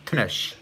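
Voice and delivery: "Tanesh" with an emphatic T; "Tanesh", a careful try at the stressed T. Shown as a demonstration. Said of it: "I put the emphasis on the T".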